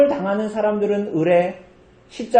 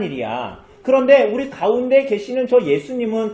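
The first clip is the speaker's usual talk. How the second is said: higher, earnest scolding of his fellow thief; rebuking robber; 4 semitones higher than usual. Retold or imitated. Repentant robber scolding the other thief, earnest rebuke. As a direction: set the other robber straight. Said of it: "이런 얘기를 하는 거야".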